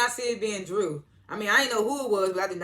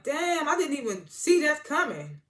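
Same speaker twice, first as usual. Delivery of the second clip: high-pitched, slow-rolling disbelief; replayed astonishment, high and drawn out; amazed reaction; 9 semitones higher, 4 dB louder than usual. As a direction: stretch it out, pitched way up in surprise. Acting out own amazed reaction.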